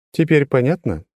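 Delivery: high, level, unchanging tone; monotone girl. A narrator's reading. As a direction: say it with no inflection. Трила speaks.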